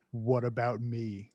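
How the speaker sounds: slow, low Stallone mumble; Stallone impression. Quoting the line for a laugh, slow and low like Stallone.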